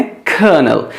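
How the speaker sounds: "कर्नल" said as kʰənəl, no r sound; kernel. Shown as a demonstration. Teacher drilling colonel as "कर्नल" for class. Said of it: "क्या बोलना है?".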